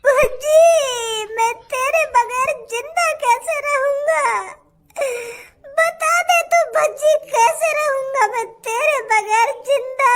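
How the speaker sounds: slow, hammed-up sobbing plea to a friend; fake crying. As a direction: wail it slowly, crying without tears. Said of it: "काय को नाटक कर रहा तू मेरे सामने रोने का".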